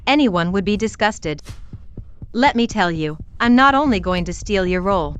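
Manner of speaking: cruel, gloating taunts; reality show fight. Acted. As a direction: sneer and mock her weight. Rival taunts the wife.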